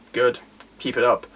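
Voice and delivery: low, unruffled voice; Goketsu, calm. Acted. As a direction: approve mildly, without any heat. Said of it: "Goketsu's very calm, he's not, like, angry".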